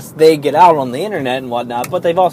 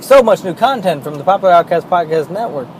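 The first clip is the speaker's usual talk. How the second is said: mocking voice; 6 semitones higher, 4 dB louder than usual. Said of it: "so they're like".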